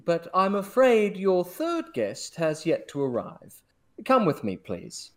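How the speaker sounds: lightly voiced posh maitre d'; a hint of a snooty head waiter. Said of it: "The maitre d'".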